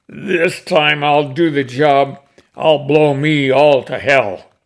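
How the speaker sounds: determined vow. Acted. Old cowboy vows to finish.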